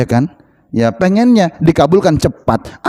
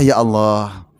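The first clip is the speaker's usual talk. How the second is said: demonstrated plea; 10 semitones lower, 4 dB quieter, much slower than usual. Shown as a demonstration. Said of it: "coba minta".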